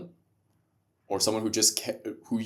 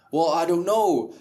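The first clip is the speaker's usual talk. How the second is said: slow, higher-pitched feigned helplessness; mock hesitancy; 5 semitones higher, 4 dB louder than usual. Podcaster imitating someone unsure about content creation, mock hesitant. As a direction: drag out a put-on clueless excuse.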